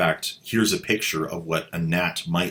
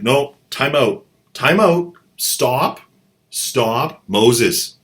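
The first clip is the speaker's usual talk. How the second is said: frantic stop; 4 semitones higher, 5 dB louder, slower than usual. Pretend. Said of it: "You'd be like".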